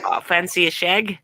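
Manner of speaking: cheeky British come-on; British accent. Shown as a demonstration. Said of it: "wants to see a British accent".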